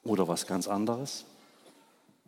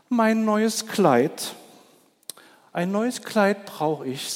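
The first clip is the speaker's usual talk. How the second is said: much higher, slow preening voice; a vain peacock showing off; 9 semitones higher, 4 dB louder, slower than usual. Acted. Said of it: "sagte der Pfau". (Der eitle Pfau will ein neues Kleid, hoch und gedehnt)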